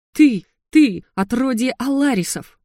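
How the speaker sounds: loud, high, choking with rage; breathless fury. A narrator's reading. Отец кричит на принцессу, задыхаясь от ярости. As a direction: spit it out, outraged and breathless. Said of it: "возмущённо тыкал ... задыхался от ярости".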